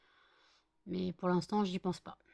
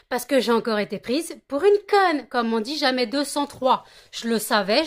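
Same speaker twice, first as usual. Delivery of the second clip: angry; 4 dB louder than usual. Real, not acted. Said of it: "je suis énervée comme pas possible".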